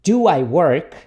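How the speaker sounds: deliberate, firmly sounded question; repeat-after-me model. Shown as a demonstration. Teacher has students repeat the question, deliberately. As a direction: give learners each word clearly.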